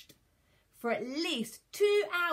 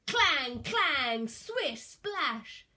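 punchy, raised onomatopoeia; loud clangs, higher swish; battle sound effects; 5 semitones higher, 5 dB louder, much slower than usual. A narrator's reading. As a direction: make each word sound like its noise. Battle noises acted out.

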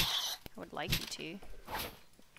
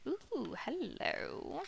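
mock greeting; 8 semitones higher, much slower than usual.

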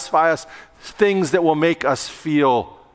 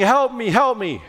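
lightly voiced cry for help, a bit higher; pretend yell for help; 4 semitones higher than usual. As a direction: call out for help again, a little higher. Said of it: "So you're yelling".

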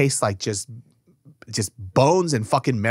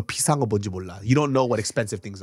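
Korean mom scolding; 5 semitones lower, 4 dB quieter, much faster than usual. Retold or imitated. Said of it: "Korean people always say".

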